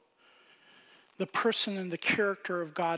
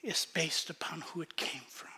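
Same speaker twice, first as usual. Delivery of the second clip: hushed whisper; 3 semitones lower, 8 dB quieter than usual. Real, not acted. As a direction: whisper the point, much softer. Sermon conclusion hushed.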